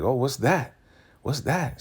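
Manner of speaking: high, curious imitation; acted high-pitched inquiry; retold nosy question. Retells Zane noticing the secret ingredient.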